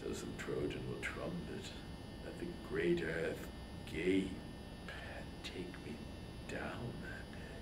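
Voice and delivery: low, soft, fading to a whisper; a king wishing the earth would swallow him, whispered; hushed despair. Acted. Agamemnon imagines the Trojan boast.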